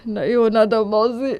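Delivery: tearful. Acted. Nephew protesting to his aunt, tearful but restrained. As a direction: hold the grief in, voice kept down. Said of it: "रोता हुआ विपुल आगे बढ़ता है".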